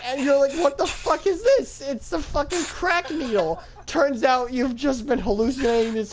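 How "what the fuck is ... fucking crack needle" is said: higher-pitched startled outburst; comic shock, pitched well up; mock alarm. Hallucinating man finding a needle in his arm, mock alarmed.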